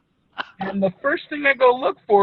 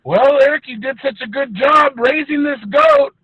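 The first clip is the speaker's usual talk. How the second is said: louder, higher, mock-praising dad; smug dad voice; 3 semitones higher, 4 dB louder than usual. Dad blames his son for the slaughtered goat, loud and mock-praising. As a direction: play the dad who is falsely sweet. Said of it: "And he's all".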